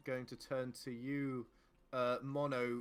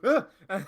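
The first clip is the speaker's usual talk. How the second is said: startled cry; 7 semitones higher, 15 dB louder than usual. Acted. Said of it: "You just sort of".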